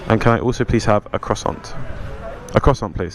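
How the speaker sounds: muffled by a bike helmet; ordering with a helmet on; talking through a helmet. Real, not acted. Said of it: "Sorry, I've got the helmet on".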